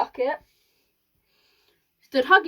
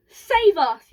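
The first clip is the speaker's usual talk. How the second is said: high, loud cry of alarm; panicked shout over the din; yell for help; 6 semitones higher, 10 dB louder than usual. A narrator's reading. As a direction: shriek to be rescued. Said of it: "yelled Grandma".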